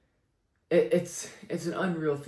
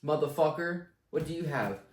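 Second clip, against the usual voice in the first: cocky shout; 6 semitones higher, 7 dB louder than usual. Pretend. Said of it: "I want them to say".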